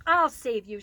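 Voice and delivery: loud brave rescue cry; heroic shout. Acted. Lulu heroically rescues pail.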